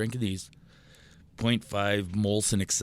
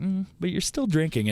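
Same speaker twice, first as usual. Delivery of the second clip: mock whiny friend; 9 semitones higher than usual. Mocking the friend's nagging.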